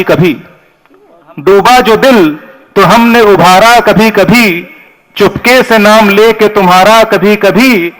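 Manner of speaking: measured, slow couplet recitation; poetry recital. Acted. Host calling the poet to the stage with a couplet, poetry recital. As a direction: recite the verse with lingering phrase ends.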